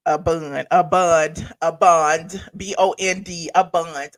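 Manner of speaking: each BOND pronounced deliberately for teasing listeners; over-enunciated pronunciation. Shown as a demonstration. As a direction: say BOND with care, repeated and spelled out. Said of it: "Don't stop talking about my Southern accent".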